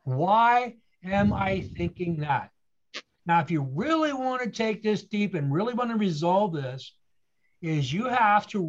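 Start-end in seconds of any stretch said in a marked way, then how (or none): 0.0-2.5 drawn-out, measured asking; calm teaching emphasis; slow deliberate question. Shown as a demonstration. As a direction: lean on each word, slowly. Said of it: "Here's the key".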